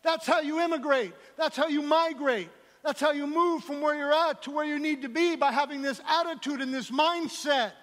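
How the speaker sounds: high, loud, emphatic sermon delivery; rousing pulpit proclamation; full-force preaching. Real, not acted. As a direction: preach it loud, driving each phrase home.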